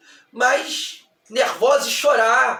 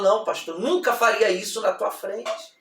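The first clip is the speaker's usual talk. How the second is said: softened, lowered retold plea; voiceless from sobbing; 3 semitones lower, 5 dB quieter than usual. Sobbing young woman answers her pastor, weak and subdued. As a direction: plead weakly, as if cried out. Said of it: "não tinha mais voz".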